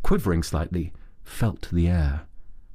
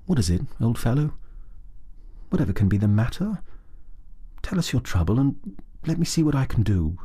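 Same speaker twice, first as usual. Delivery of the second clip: gently concerned, a touch higher; quiet and sympathetic; 4 semitones higher, faster than usual. A narrator's reading. Rat gently comforting his sobbing friend, quiet and sympathetic. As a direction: soften it for a friend in distress. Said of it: "very quietly and sympathetically".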